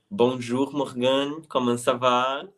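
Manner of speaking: clumsy English-accented French greeting; hesitant schoolbook French; halting phrasebook tourist. Real, not acted. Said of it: "Sorry for my terrible French".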